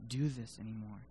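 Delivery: low, soft, defeated prayer; worn-out, despairing plea; broken and tired. Acted. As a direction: give up wearily, sinking at the end. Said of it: "And he's tired".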